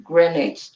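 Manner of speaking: Greenwich as GREN-idge. Shown as a demonstration. Questioning the missing W, Greenwich said GREN-idge. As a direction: drop the W from Greenwich. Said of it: "Where's the W".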